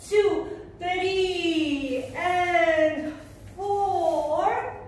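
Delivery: rhythmic, stretched count-in; calling dance counts. Shown as a demonstration. Dance teacher calls counts and moves to students, rhythmic chant. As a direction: call each move on the beat.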